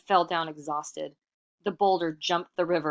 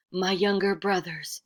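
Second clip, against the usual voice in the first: sly trickster; 3 semitones higher than usual. Acted. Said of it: "Iktomi said".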